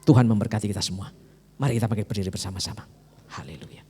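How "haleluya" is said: hushed hallelujah. Real, not acted. Hushed worship cry.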